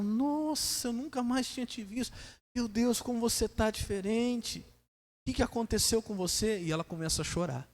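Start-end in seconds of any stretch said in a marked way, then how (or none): 0.0-6.6 imitated concerned lady. Lady meeting a sick acquaintance, imitated soft astonishment. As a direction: softly imitate a lady shocked by her friend's changed look. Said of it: "A outra senhora diz pra ela".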